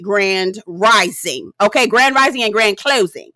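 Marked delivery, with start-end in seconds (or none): 0.0-1.5 slow mock sign-off. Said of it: "mock sign-off".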